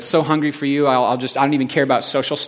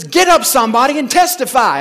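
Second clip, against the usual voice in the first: much higher, louder rousing call; preacher's call; 10 semitones higher, 7 dB louder than usual. Retold or imitated. Preacher calling the congregation to stand, loud. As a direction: rouse the room to its feet. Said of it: "And he says".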